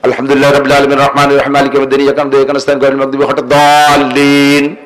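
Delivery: Fatiha gabbled fast without a pause for breath; rushed in one breath. Shown as a demonstration. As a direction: race through the verses in a single breath. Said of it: "এক নিঃশ্বাসে মারিয়ে দিয়েছেন". (এক নিঃশ্বাসে তাড়াহুড়ো করে পড়া)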